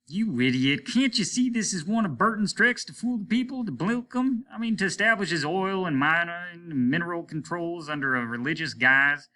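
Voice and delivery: captain shouting at Martin as a fool; furious outburst. Acted. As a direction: berate him with rising fury.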